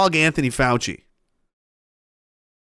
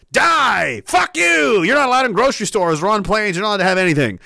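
mock hateful shouting; 2 semitones higher than usual. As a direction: spit hatred as the enemy. Voicing the enemy side's hatred.

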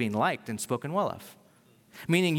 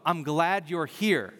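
warm welcome; slower than usual. Retold or imitated. Welcome quoted as a blessing.

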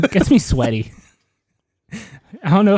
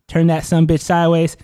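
wrestler promo; 3 semitones higher than usual. Acted. Wrestler promo rant to Monica.

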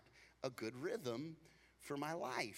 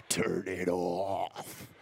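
stern order; 11 semitones lower, 6 dB louder, much slower than usual. Retold or imitated. Wife ordering alarm off.

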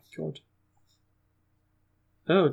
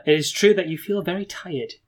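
measured storyteller reading; gamebook narration; 2 semitones higher than usual. A narrator's reading. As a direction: set the scene for the player.

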